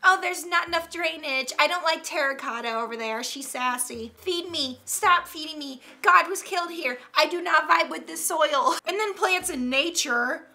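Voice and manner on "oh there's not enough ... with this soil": lightly voiced demanding, picky plant; complaining Karen. Sassy houseplant fussing over its care, mildly Karen-like. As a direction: complain like a mild mock Karen. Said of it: "This plant sounds like a Karen complaining".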